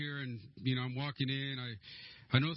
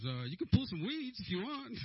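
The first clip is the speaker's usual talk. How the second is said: offhand suggestion; 10 semitones higher than usual. Retold or imitated. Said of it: "he goes".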